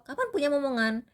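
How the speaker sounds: high, prying mock question; nosy relative. A nosy relative asking about babies, mock prying.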